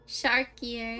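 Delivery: gleeful punchline. Real, not acted. Punchline after laugh.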